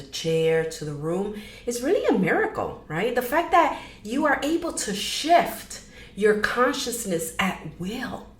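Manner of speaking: measured meditation guide with long pauses; gentle guiding, pausing often; guided meditation. Acted. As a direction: ease them into it, leaving room between phrases.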